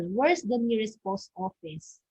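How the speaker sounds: "Where's the nearest post office" dropping at "office"; falling intonation. Shown as a demonstration. Teacher demonstrating a WH question, falling at "office". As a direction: let the voice fall on "post office". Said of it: "just your voice falls".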